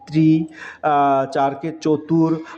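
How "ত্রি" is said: teacher stresses ত্রি; Sanskrit numeral demo. Shown as a demonstration. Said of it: "তিনকে সংস্কৃত বলে".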